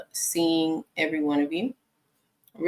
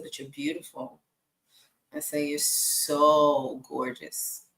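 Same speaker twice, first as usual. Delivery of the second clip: soft, slow, tender compliments; gentle slow reassurance; reassuring; 3 semitones lower, 4 dB quieter, slower than usual. Retold or imitated. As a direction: soothe the hurt daughter. Mom reassuring daughter.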